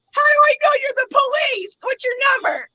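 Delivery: high, tense demand; suspicious challenge. Retold or imitated. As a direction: doubt him and press hard. Suspicious caller challenging the officer.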